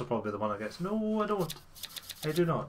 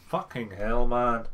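frustrated curse; 4 dB louder, slower than usual. Real, not acted.

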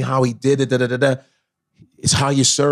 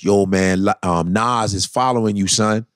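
low troll voice; 5 semitones lower than usual. Retold or imitated. Troll repeating message.

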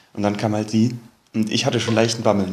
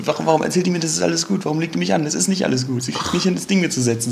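panicked; 6 semitones higher, faster than usual. Retold or imitated.

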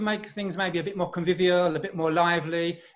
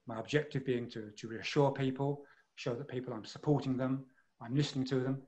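much softer, lower, calm and supportive; reassuring green voice; 3 semitones lower, 8 dB quieter than usual. Shown as a demonstration. Coach showing people they are being listened to, reassuring. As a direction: drop the volume to reassure. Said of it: "my volume is probably going to go down".

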